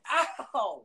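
sudden high yelp after a slap; pained yelp. Real, not acted. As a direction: yelp as if just slapped. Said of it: "Tyler just slapped me across the face".

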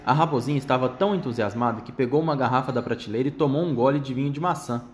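plain reading voice

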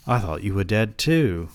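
lightly put-on British accent. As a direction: answer with a hint of British. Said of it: "giving this man a British accent".

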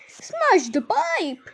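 high, very drawn-out yell; slow, high-pitched frantic command. A narrator's reading. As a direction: yell the order, stretching each word. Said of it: "yelled Miss Gloop".

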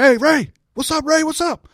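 acted hollering. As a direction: call out excitedly to someone across an arena. Friends hollering across the arena.

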